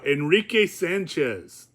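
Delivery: put-on slow, lightly rolled-out Spanish accent; mild imitation of a Spanish accent. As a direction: say the name with a touch of Spanish accent. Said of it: "they actually helped me with the accent".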